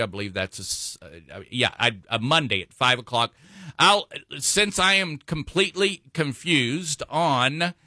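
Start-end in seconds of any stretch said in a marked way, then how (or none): 3.8-7.7 stuttering. Real, not acted. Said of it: "I'm stuttering because I'm trying to".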